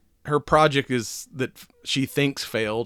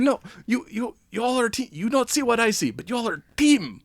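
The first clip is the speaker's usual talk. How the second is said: higher, hammed-up Russian accent as Alexei; a cheesy, proud Russian hero, pitched up; doing a deliberately bad Russian accent for Red Guardian; 10 semitones higher than usual. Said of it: "I can do bad Russian voice".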